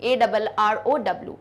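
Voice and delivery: spelled very slowly, letter by letter; spelling arrow for students. Shown as a demonstration. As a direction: dictate A double R O W slowly. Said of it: "R is double".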